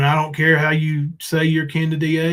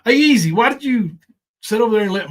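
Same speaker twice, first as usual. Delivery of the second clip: mocking call-out; 6 semitones higher than usual. Calling out Easy over the chat, taunting sing-song. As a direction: needle him with a put-on lilt.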